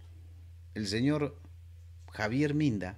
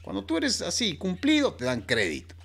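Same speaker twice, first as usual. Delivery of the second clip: higher, proud lender voice; lightly voiced proud friend; boastful Javier; 4 semitones higher than usual. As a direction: show off your credit line.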